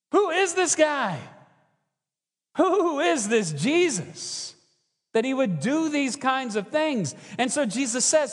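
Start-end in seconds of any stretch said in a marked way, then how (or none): 0.1-7.2 higher, slow incredulous musing; puzzled Pharisee. Retold or imitated. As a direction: wonder aloud who this man is. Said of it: "Pharisees wondering about Jesus".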